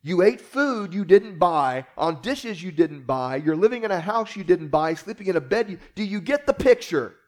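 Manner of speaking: lightly acted exasperated parent tirade; frustrated dad. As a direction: lecture an ungrateful child emphatically. Acts out frustrated parent lecturing child.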